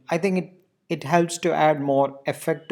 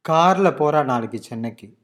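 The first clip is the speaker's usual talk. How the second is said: கார்ல loud and raised at the front, the rest falling; stress on கார்ல; 5 dB louder, much faster than usual. Shown as a demonstration. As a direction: hit கார்ல, play down நாளைக்கு சென்னைக்கு. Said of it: "key word is car".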